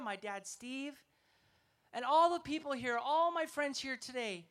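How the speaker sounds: prayerful, unhurried prayer voice. Acted. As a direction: lead the congregation in prayer. Closing prayer.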